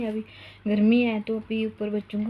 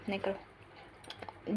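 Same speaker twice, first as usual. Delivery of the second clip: slow, breathy whispered "don't"; 11 dB quieter, much slower than usual. Real, not acted. Mother hushing her son mid-video, slow whisper.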